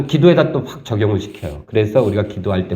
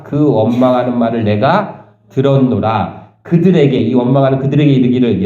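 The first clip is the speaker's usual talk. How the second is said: slow, deliberate Bible reading; scripture reading. Acted. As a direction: read each phrase weightily to the church. Reads scripture aloud slowly. (천천히 또박또박 성경 낭독)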